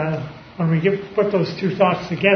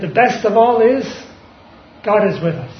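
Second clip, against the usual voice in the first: a rising cry of triumph, higher and louder; triumphal; 3 semitones higher, 5 dB louder than usual. Retold or imitated. Preacher retelling Wesley's deathbed words, triumphant cry. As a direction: proclaim it like a dying man's last victory. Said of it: "said in a triumphal, triumphal voice".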